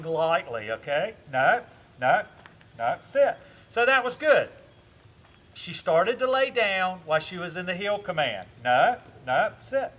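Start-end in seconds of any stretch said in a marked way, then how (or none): 1.3-3.4 loud, firm no, no, sit; firm correction. Real, not acted. Correcting dog lying down. 8.6-9.9 loud, firm no, no, sit; firm correction. Real, not acted. Correcting dog lying down.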